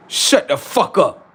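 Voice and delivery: slow alien voice; slow alien snap. Acted. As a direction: cut him off in a strange voice. Alien answers slowly.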